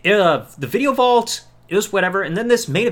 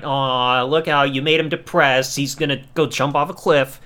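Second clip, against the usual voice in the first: lower, sing-song fake sympathy; mock pity; 6 semitones lower than usual. Taunting Daniel for pretending to be sad, mock pity. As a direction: tease him like a sulking child. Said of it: "almost like the childlike thing".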